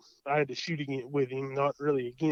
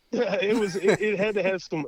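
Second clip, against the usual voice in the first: real chuckle through the words; laughing; 5 semitones higher than usual. Real, not acted. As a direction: laugh it off, bashful. Laughing at the host's question.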